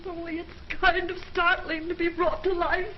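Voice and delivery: slow words breaking into a tearful laugh; laughing through tears. Acted. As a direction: laugh and cry at once.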